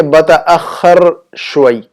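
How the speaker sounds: بتأخر شوئی with a firm rasped kh; pronunciation model. Shown as a demonstration. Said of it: "ہم اس کو یوں کہیں گے".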